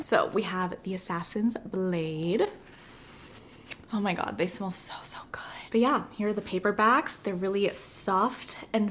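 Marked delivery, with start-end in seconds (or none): 3.9-5.4 breathless whisper over the books; awed whisper. Real, not acted. To viewers, swooning over the book smell, whispered. Sniffing new paperbacks, swooning.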